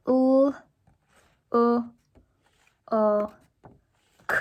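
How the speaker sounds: L, U, O, K spoken one letter at a time with pauses; sounding out letters. Shown as a demonstration. Teacher sounding out look for students, letter by letter. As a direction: slide through each letter of look slowly. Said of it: "starting off the word look".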